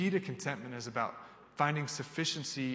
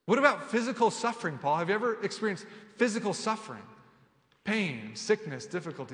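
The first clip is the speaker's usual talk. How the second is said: a doubter pressing Paul, incredulous and raised; doubting listener; 6 semitones higher than usual. Retold or imitated. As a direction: push back on Paul in disbelief. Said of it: "You say".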